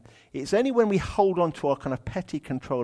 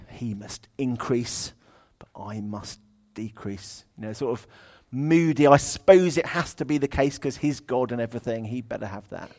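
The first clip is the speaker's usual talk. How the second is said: begrudging; 2 semitones lower than usual. Shown as a demonstration. Preacher demoing the verse grudgingly, begrudging. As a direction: drag it out like you resent it. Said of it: "begrudging, shirty kind of way".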